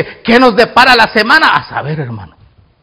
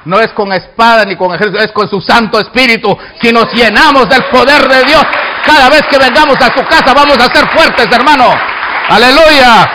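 emphatic sermon climax; fervent preaching; 4 semitones higher, 6 dB louder than usual. Real, not acted. Preacher promising strength in God's house, fervent climax. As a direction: build to a ringing hallelujah.

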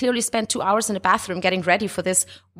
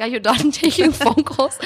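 husband's quote; 6 semitones higher than usual. Retold or imitated. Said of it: "Desi's like".

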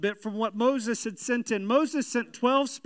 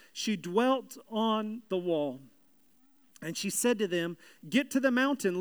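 measured, solemn Bible reading; scripture reading. Acted. Reads the scripture passage aloud.

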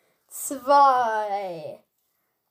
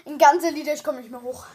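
breathless after chugging; panting after drinking a liter; out of breath; 3 semitones higher, 5 dB louder than usual. Real, not acted. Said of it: "Und wie war's".

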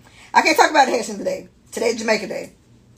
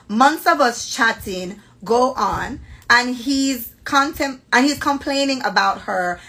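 slow, careful Jamaican read-aloud; deliberate Jamaican-accented storytelling; proper Jamaican accent. Acted. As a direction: read it measured, in a polite Jamaican lilt. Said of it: "I'm gonna talk like this".

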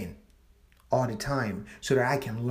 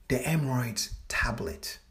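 a throwaway whisper under the breath; whispered joke; 5 dB quieter than usual. Real, not acted. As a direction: sneak the pun in as a whisper. Joke title muttered aside.

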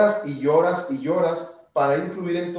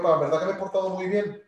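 niño que convence. Retold or imitated. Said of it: "sí le digo".

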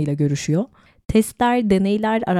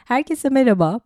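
lost voice, hoarse and strained; 6 semitones higher than usual. Real, not acted. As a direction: talk through a voice that's gone. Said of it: "Sesim gitti arkadaşlar".

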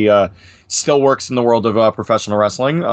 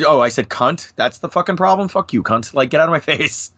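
mock indignant rant; 4 semitones higher than usual.

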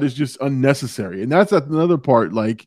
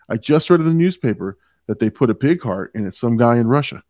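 confident deadpan quote, a little lower; super straight; 4 semitones lower than usual. Retold or imitated. Host quotes Will Ferrell's random line, super straight and confident. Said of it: "playing it super straight".

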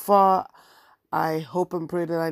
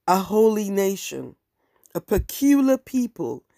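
scripture reading; 2 semitones higher than usual. Retold or imitated. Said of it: "I'm quoting King James Version Bible".

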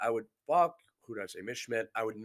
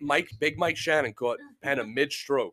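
loud; 11 dB louder than usual. Real, not acted. Exposing friends' story, shouting.

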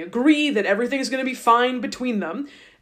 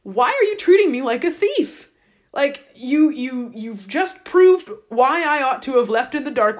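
upset Jacob; 3 semitones higher, 3 dB louder than usual. Retold or imitated. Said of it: "he gets really upset".

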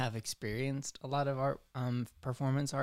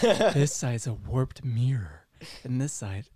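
slow breathy whisper, art snob; languid pretentious art snob; 7 dB louder, slower than usual. Pretend. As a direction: whisper it like a pompous artist. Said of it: "my go-to pretentious art voice".

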